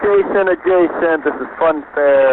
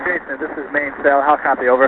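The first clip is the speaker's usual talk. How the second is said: crackly military radio. Real, not acted. Radio call from main cell.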